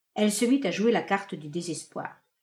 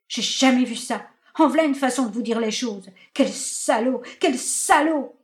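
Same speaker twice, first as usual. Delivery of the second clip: indignant ranting; 3 semitones higher, 4 dB louder than usual. Acted. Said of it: "jouait maintenant la scène".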